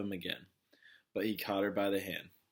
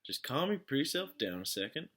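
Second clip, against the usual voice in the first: higher, lazy drawling sheriff; slow drawl; 6 semitones higher than usual. A narrator's reading. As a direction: stretch the words out, unhurried and condescending. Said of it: "slow drawl".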